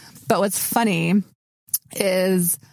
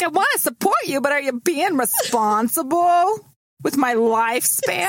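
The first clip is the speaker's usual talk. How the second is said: high mock voice; 8 semitones higher than usual. Quoting someone in a high voice.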